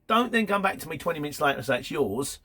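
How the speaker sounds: a driver venting at a shipper, half-mock angry; retold frustrated rant. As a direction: retell the telling-off with real irritation. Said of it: "this is really frustrating".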